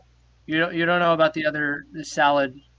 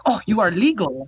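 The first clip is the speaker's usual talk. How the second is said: mock Norwegian accent; 2 semitones higher, 3 dB louder than usual. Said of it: "this accent is".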